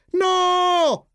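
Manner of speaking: long, very high-pitched cry; acted yell. A narrator's reading. Jeep stopping Flip at the TV, high acted yell. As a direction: yell it high, at moderate volume. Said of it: "urlò Jeep con tutta la sua voce".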